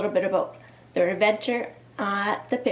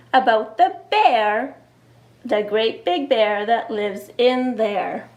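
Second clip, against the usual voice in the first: put-on scared little boy. Teacher reading to kids, lightly voicing scared Eddie. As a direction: read it as a worried child.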